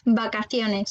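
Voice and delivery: "Vacaciones" with the V said as B; V prononcé B. Shown as a demonstration. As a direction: say "Vacaciones" starting on a B sound. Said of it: "V qui va se prononcer comme B". (« Vacaciones » avec un V prononcé B)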